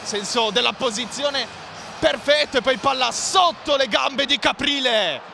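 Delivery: screaming high, loud goal call; breathless italian goal commentary. Real, not acted. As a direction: shout the goal with pure joy. Goal scored, commentator erupts.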